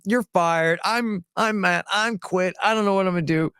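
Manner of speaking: hammed-up boss losing it; mock yell. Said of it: "Eric just starts screaming at me".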